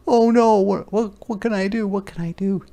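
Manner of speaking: sharp gasp, then high, frantic worry; high-pitched acted alarm, stumbling over words; panicked little girl. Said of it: "the little girl is like".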